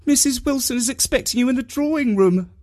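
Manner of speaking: high-pitched maid announcing formally; maid's voice. A narrator's reading. Maid announces the visitor's hostess.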